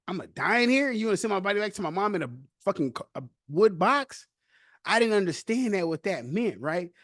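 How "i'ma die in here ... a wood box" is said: higher, panicky disbelief, half-acted; retold terror. New inmate told his body may be shipped home, mock-terrified. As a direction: recall the fear, voice climbing. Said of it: "I'm terrified 'cause I'm like".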